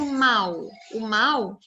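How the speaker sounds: "mal" punched and held; stressed syllable singled out. Shown as a demonstration. Teacher pointing children to the stronger syllable, "mal" said with force. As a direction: hit MAL firmly, both times. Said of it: "ele tem mais força".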